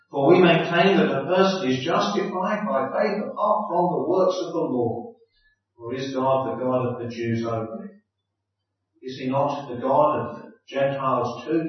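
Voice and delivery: measured, solemn Bible reading; scripture reading. Acted. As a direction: read the passage steadily, like a lectern reading. Reads Romans aloud before sermon.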